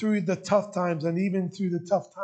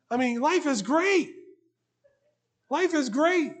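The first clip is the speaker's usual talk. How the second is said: louder, brighter picture of good days; upbeat; 3 semitones higher, 3 dB louder than usual. Acted. Pastor painting carefree good days for congregation, upbeat. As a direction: sell the happy life. Describing good times cheerfully.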